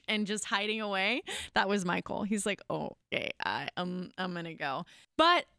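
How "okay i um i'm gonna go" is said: softer, lower and timid, backing off; husband quietly retreating from his crying wife, meek; sheepish retreat. Retold or imitated. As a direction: tiptoe out of the room with the words. Husband backing away from meltdown.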